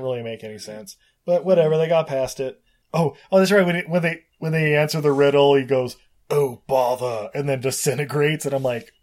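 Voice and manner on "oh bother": drawn-out Cockney sphinx; Cockney accent. Retold or imitated. Sphinx giving up once the riddle is answered, mock Cockney accent. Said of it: "have a Cockney accent".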